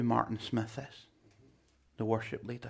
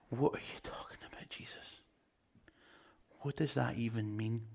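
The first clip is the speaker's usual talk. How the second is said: puzzled thought; 6 dB quieter than usual. Acted. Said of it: "you read that and you're thinking".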